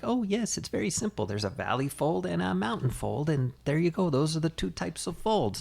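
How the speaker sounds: high, airy mock-casual instructor; breezy instructor voice. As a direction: mimic a cheerful how-to guide, high.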